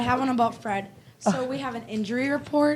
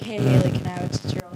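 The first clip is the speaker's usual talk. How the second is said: asking Haley; 10 semitones lower, much faster than usual. Retold or imitated. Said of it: "I was like".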